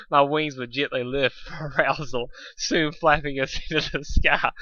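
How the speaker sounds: real giggles breaking the words; giggling through. Real, not acted. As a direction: read on while laughing. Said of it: "laughs inside the lines".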